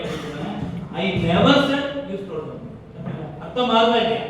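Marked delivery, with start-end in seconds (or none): 1.0-2.7 "never" weighted, sentence read slowly with a falling end; slow and deliberate, leaning on "never"; stress on never. Shown as a demonstration. Teacher models the emphasis on "never" for the class. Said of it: "emphasise பண்ணும்போது".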